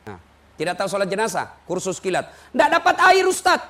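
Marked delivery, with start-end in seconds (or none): 2.6-3.6 questioning congregant. Retold or imitated. Asker voiced in sermon.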